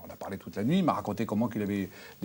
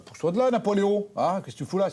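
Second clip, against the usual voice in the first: yelling at the dog; 10 semitones higher, 4 dB louder than usual. Retold or imitated. Yelling at his dog at night.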